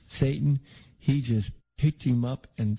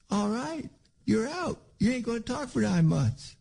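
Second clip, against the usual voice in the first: much higher, exasperated telling-off; mock dismissal; 11 semitones higher than usual. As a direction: throw him out in mock outrage. Hypothetical angry dismissal.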